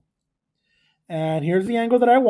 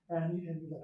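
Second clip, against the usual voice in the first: ordinary delivery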